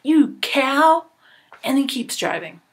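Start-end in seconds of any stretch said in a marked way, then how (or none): 0.0-1.1 louder, higher, offended shout of an insult; a driver yelling back, offended; upset retort. Acted. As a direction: snap back at her, stung. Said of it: "he gets kinda upset and he says".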